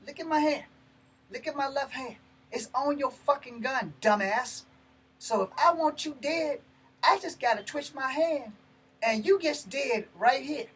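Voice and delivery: loud, high, furious warning; angry threat. Retold or imitated. Telling the cop he has his gun, furious. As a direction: spit it at the cop with menace.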